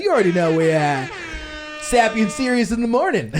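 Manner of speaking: hyped radio DJ intro; morning radio host. Pretend. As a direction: boom it out like a morning show. Jokey morning show intro.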